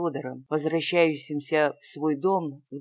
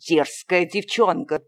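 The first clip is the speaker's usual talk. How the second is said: louder indignant cry; angry outcry; 5 dB louder than usual. A narrator's reading. The uncle cries out at the impudent girl, louder and indignant. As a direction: hurl the insult. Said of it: "вскричал муж".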